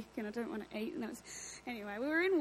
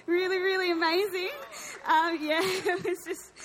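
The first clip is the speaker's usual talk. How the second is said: tearful; 6 semitones higher, 7 dB louder than usual. Real, not acted. Tearful healing testimony.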